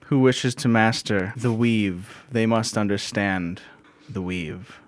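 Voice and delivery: slow, measured lecturer; lecturing. Acted. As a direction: lecture slowly, letting it sink away. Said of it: "she starts lecturing".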